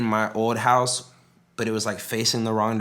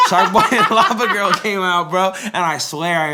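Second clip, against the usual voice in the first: high laughing voice; 8 semitones higher, 6 dB louder than usual. Real, not acted. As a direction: laugh through the words. Laughing at his memory.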